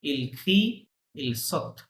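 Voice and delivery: "Il crie, il saute" with nothing sounded after the stem; silent verb endings. Shown as a demonstration. Teacher showing a student that -ent is silent, "Il crie, il saute" without it. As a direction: say "Il crie, il saute", dropping the written -ent completely. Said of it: "ওএনতে বাদ".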